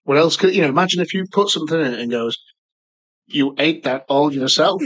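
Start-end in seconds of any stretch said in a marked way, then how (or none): 3.3-4.8 slow, lightly voiced machine remark; judging bin. Imagined bin comments on what was thrown in, slow judging voice. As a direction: spell out the accusation slowly as a bin.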